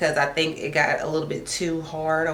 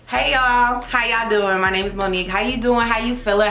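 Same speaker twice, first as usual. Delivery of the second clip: hyped greeting; 4 semitones higher than usual. Real, not acted. Hyped intro greeting to viewers.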